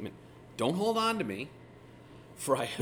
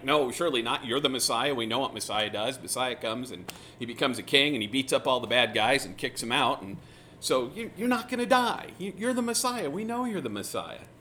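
protesting disciples; 5 dB louder than usual. Retold or imitated. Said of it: "And they're like".

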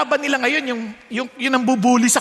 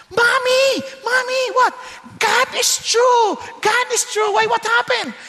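put-on excited child shouting; 11 semitones higher than usual. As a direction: burst in yelling like a thrilled child. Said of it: "umuwi yung bata".

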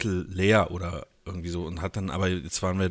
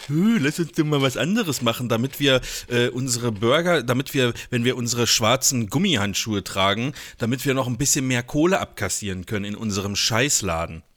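mocking hipster voice; 3 dB louder than usual. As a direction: sneer it like a trendy burger shop owner. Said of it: "Hipster-Scheiße". (spöttische Hipster-Stimme)

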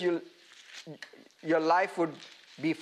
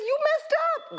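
gently voiced God. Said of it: "God says".

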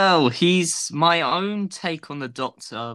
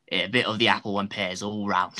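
put-on Cockney accent; 5 semitones lower than usual. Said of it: "can we hear your Cockney accent?".

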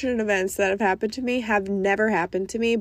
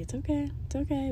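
higher, soft nervous reassurance; self-soothing; 5 semitones higher, 8 dB quieter than usual. Retold or imitated. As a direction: mutter it to keep yourself calm. Repeating to herself at the desk.

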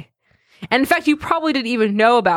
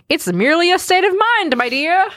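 mock posh quote; 10 semitones higher than usual. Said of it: "this quote at the top".

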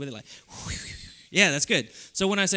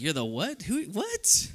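confused; 4 semitones higher, slower than usual. Retold or imitated. Audience confused by wrestler.

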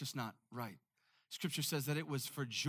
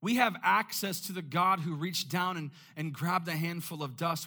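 louder, emphatic preaching; swelling sermon voice; rising preaching; 7 dB louder than usual. Real, not acted. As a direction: build it up from the pulpit. Preacher building to a climax.

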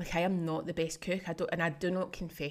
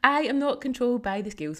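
proud mantra; 6 semitones higher, 9 dB louder than usual. Acted. Declares client's line as mantra.

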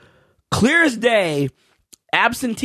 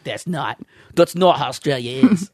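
low, unsure stab at Australian; attempted Australian accent; 4 semitones lower than usual. Hugh Jackman objecting about Australia, shaky Australian accent. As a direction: try a doubtful Australian accent. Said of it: "is that an Australian accent?".

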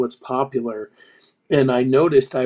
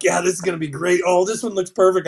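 quick, higher, eager self-talk; eager self-quote; 5 semitones higher, 3 dB louder, faster than usual. Retold or imitated. Home pizza maker recalling his own quick, higher, eager delight. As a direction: rush it out like you're proud of every pizza. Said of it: "I'm like".

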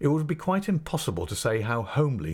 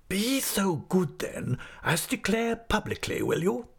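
high, drawn-out, condescending request; falsely polite schoolmaster; 11 semitones higher, slower than usual. Acted. Headmaster orders assistant to declare publicly, falsely polite. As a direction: stretch the courtesy into a demand.

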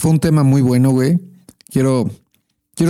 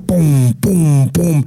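imitated banging; much slower than usual. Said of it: "Suena como".

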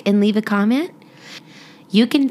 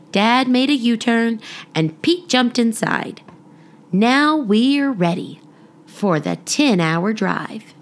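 put-on children's story reading. Podcast mom reading a rhyming picture book to children, lilting storytelling. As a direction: read it like a bedtime rhyme for little ones.

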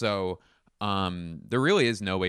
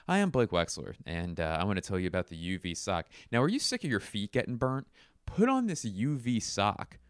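infomercial voice. Pretend. Infomercial pitch.

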